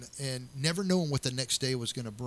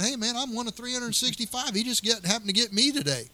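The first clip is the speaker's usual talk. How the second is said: higher and louder, breezy brush-off; emphatic reassurance; 9 semitones higher, 6 dB louder than usual. Retold or imitated. Retelling reassurance to a worried friend, higher and louder. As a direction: laugh off the danger to a worried friend.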